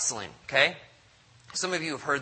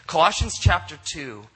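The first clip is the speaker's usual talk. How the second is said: emphatic repeat; 3 semitones higher, 6 dB louder than usual. Real, not acted. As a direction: call the reference out to the room.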